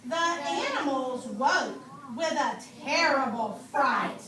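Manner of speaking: slow, sing-song storybook reading; lilting read-aloud for little kids; reading to children. Acted. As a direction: read it out to the class like a picture book. Teacher reads picture book aloud.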